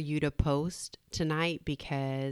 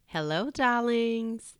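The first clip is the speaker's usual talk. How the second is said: slow, higher, drawn-out sultry hello; femme fatale; 7 semitones higher, 5 dB louder, slower than usual. Acted. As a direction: purr the greeting like a femme fatale.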